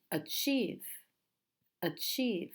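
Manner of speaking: "Achieve" with a strong chieve; stress second syllable. Shown as a demonstration. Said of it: "stress the second".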